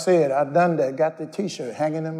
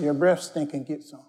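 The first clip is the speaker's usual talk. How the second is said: dropping to a sly, hushed tempter's voice; quiet voice of the flesh; 5 dB quieter than usual. Retold or imitated. Preacher voicing his own flesh tempting him, hushed and sly. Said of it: "my flesh said".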